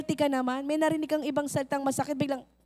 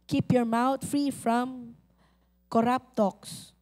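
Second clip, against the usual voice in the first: slow deliberate reading; much slower than usual. Shown as a demonstration. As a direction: Keep your mouth read word by word, slowly. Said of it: "slow repeated reading". (dahan-dahang pagbasa ng talata)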